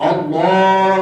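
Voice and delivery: اللہ with the ha kept short and loud; correct Allah. Shown as a demonstration. Teacher shows the right way to end اللہ, firmly. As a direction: say اللہ without stretching the ha. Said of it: "لمبا نہیں کرنا، کھینچنا نہیں ہے".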